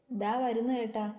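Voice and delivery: calling back loudly. A narrator's reading. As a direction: shout back that she's coming. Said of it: "അവർ ഉറക്കെ വിളിച്ചു പറഞ്ഞു". (ഉറക്കെ വിളിച്ചു പറയുന്നു)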